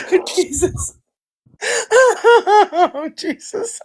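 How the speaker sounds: gasping laugh, fading to breath; breathless laughing sighs. Real, not acted. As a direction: ride out the laughing fit. Gasping after laughing fit.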